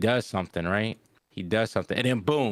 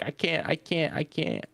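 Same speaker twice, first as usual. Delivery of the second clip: higher-pitched mock panic, repeating helplessly; light imitation of a frantic protest; imitated meltdown; 6 semitones higher than usual. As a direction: act out someone starting to crash out. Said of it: "he started crashing".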